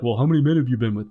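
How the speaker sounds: pathetic prying. Retold or imitated. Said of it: "That looks pathetic".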